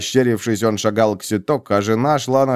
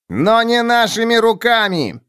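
wail; 12 semitones higher than usual. A narrator's reading. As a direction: cry it out to the crowd. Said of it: "Вопль заставил поворачиваться головы".

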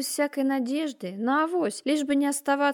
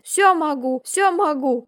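louder chant held on one note; monotone incantation; 4 semitones higher, 7 dB louder, slower than usual. A narrator's reading. Terrified craftsman begging the margrave, one-note incantation. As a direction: repeat it like a desperate spell. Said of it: "на одной ноте заклинал он".

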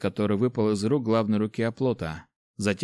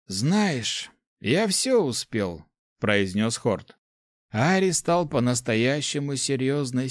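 put-on old rector voice; 2 semitones higher, slower than usual. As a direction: speak as a kindly old master. Rector speaks.

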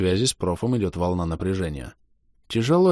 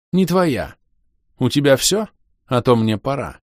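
mild disdain; 6 semitones higher, 5 dB louder than usual. Acted. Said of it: "Умеренная доза пренебрежения".

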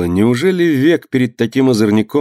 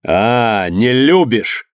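mocking shout; much slower than usual. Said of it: "закричал Иван Максимыч".

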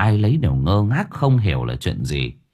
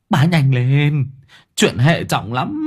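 slow, stressed urging; insistent slow plea; urgent; 3 semitones higher, slower than usual. Acted. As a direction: press her to hurry, drawing words out. Urging her to hurry.

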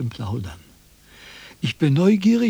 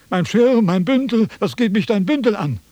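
mocking imitation; 5 semitones higher than usual. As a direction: parrot the rude man's complaints to ridicule him. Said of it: "schreit hier herum".

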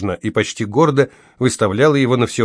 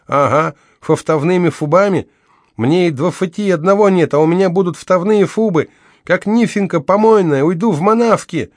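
toothless lisp; 8 semitones higher, 4 dB louder than usual. Acted. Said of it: "Gloria toothless, bitter".

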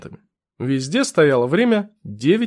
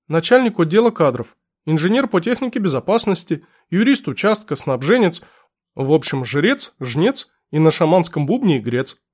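put-on fussy old clerk. Clerk voiced.

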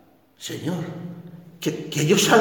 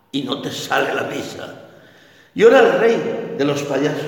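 ordinary talk

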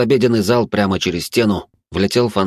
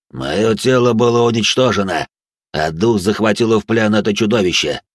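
pressing, otherworldly phantom voice; eerie ghost voice; 3 semitones higher, 4 dB louder than usual. Acted. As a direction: loom over him as a ghost. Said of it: "продолжил напирать на Василя я".

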